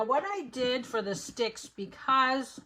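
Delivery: talking through a mouthful of chocolate; words round a bite of candy; mouth full. Real, not acted. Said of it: "I'm talking with my mouth full".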